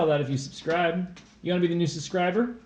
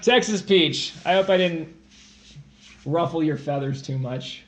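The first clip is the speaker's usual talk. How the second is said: lightly put-on Texan accent; put-on Southern accent. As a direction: play it as a mild Texas accent. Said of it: "You can't do accents now".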